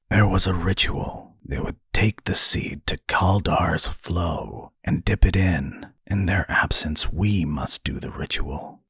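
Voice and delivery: lightly hushed, solemn character voice; quiet, understated reverence; reverential tones. A narrator's reading. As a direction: speak as if of something sacred. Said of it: "speaking in reverential tones".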